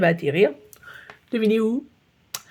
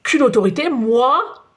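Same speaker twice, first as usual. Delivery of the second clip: louder indignant snap; barking retort; 3 semitones higher, 4 dB louder, slower than usual. Acted. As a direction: throw the question back, offended. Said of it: "aboie le bouillon". (le surveillant aboie, indigné)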